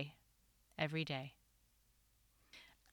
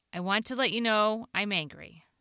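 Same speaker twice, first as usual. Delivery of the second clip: ordinary delivery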